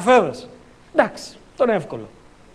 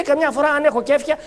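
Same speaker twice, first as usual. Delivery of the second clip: evasive teacher; 5 semitones higher than usual. Retold or imitated. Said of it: "μου λέει".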